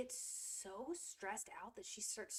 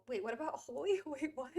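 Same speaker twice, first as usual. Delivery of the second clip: puzzled, higher and louder question; confused surprise; 5 semitones higher, 7 dB louder than usual. Real, not acted. Misreading holes as holy, puzzled. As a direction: ask it baffled.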